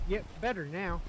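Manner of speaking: barely audible, mumbled reply; quiet. Real, not acted. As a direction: say it very softly, almost under the breath. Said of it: "you might wanna speak up a little".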